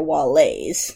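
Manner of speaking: "Walleys" ending in an "ay" sound; "Walleys" rhyming its end with "days". Shown as a demonstration. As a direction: say "Walleys" as wall-AYS. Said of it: "they are Waste Allocation Load Lifter Axiom class".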